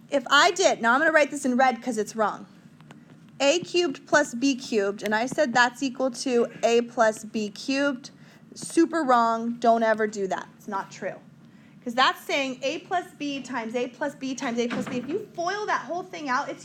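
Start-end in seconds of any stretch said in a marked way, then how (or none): 0.1-10.5 louder, firm warning to the class; raised voice. Real, not acted. Teacher scolds students over a wrong formula, raised voice. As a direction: push it out like a correction in red ink. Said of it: "Sorry for yelling".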